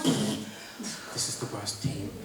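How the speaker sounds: slow laughing groan, then loud. Real, not acted. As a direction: drag it out laughing in disbelief. Laughing despair.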